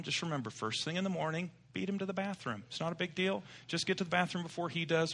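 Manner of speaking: soft, calm motherly reassurance; soothing mom. Retold or imitated. Mother calming her worried daughter, soft and gentle. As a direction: gently settle your nervous daughter down. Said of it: "Mom said".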